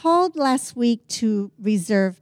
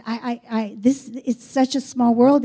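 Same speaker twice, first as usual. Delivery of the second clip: stammering, bewildered retelling; 2 semitones higher than usual. Retold or imitated. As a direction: stumble over the start, as if amazed. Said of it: "he was just bewildered".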